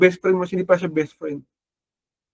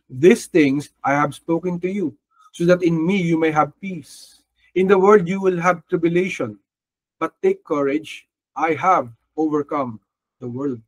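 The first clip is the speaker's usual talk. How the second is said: slow, measured Bible reading; scripture reading; slower than usual. Acted. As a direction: read the verse slowly and solemnly. Reads scripture verse slowly.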